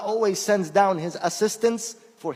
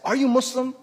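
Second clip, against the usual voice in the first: higher, lightly voiced old man's question; old man asking; 7 semitones higher than usual. Elderly man at the car wash asks, lightly voiced. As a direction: ask it like a curious old stranger. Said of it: "elderly white American man with a cane".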